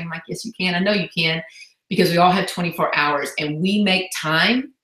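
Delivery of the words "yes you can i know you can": soothing mom. Retold or imitated. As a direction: coax it like patting a child's head. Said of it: "kinda like I pat my nine-year-old".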